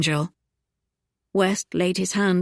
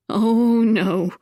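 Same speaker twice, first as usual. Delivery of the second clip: vehement; 3 semitones higher, 4 dB louder than usual. A narrator's reading. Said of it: "Viola said vehemently".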